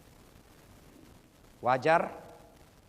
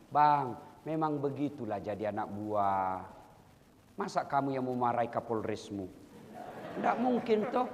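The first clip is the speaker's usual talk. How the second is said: soothing wife; 4 semitones lower, 4 dB quieter than usual. Pretend. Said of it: "hadirlah kau sebagai penyejuk".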